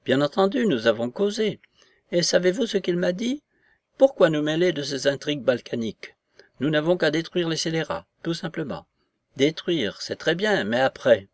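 high, emphatic voice of an agitated grande dame; excitable society lady. Acted. Voices Madame de S in dialogue.

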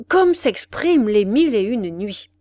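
loud, elated praise; delighted exclamation. Acted. Café owner marvelling at the prince's phrase, delighted exclamation. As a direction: let the admiration burst out. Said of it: "s'écria-t-il, dilaté".

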